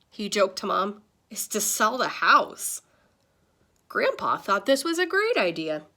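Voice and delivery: put-on lively read-aloud to kids; animated classroom storytime voice; story narration. A narrator's reading. Reads picture book aloud.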